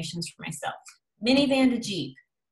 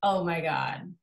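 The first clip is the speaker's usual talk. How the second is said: mock shocked viewer. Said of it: "I've been like".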